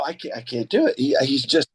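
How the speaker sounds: usual speaking voice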